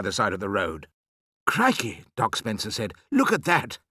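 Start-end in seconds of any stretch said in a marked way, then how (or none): 1.5-2.0 higher, amazed outburst; astonished exclamation. A narrator's reading. Doctor seeing a pheasant fly from the pram, astonished. 3.1-3.8 higher, amazed remark; astonished exclamation. A narrator's reading. Doctor watching the escaped pheasant, astonished.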